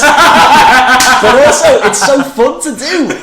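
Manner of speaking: loud, high, drawn-out delight; squealing with enthusiasm; laughing excitement. Real, not acted. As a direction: gush at top pitch, through laughter. Excited gushing over a fun voice.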